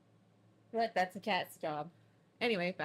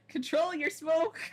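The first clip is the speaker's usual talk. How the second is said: slow, higher, louder mock demand; mocking politicians; 9 semitones higher, 8 dB louder, slower than usual. Mocking US politicians who blame Canada for the smoke. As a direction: parrot the demand in a pompous, dragged-out voice.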